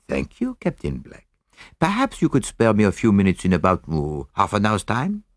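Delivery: put-on lightly accented, courteous detective; polite, measured sleuth wrapping up; Poirot. Poirot dismisses the captain politely.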